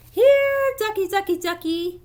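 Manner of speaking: loud, very high coaxing call; sing-song call to lure a duck. Acted. Duck believer calls out to the duck, high and loud.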